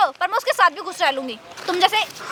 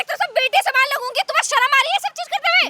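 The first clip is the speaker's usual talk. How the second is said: high-pitched indignant scolding; affronted niece-in-law, pitched high; indignant reproach; 6 semitones higher than usual. Acted. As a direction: shame him with a rising, offended voice. Confronting uncle-in-law over his advances.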